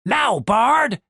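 high, sharp command to act; urgent signal. Acted. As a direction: cue a partner at the critical moment. Half-elf gives the signal.

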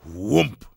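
hollow imitated landing thud; heavy thump. A narrator's reading. Narrator voices the hare's first jump, solid thump.

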